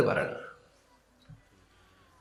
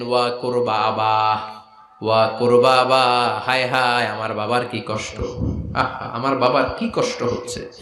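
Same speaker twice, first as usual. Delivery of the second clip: acted lament. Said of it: "চিৎকার দিয়ে কান্নাকাটি শুরু করে দিলেন".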